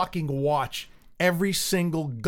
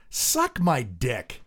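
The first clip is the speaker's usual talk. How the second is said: slow disgusted; 3 semitones lower, much slower than usual. Real, not acted. Disgusted retort.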